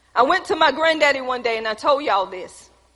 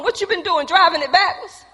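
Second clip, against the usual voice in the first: laughing man; 5 semitones higher than usual. Retold or imitated. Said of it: "the man was laughing".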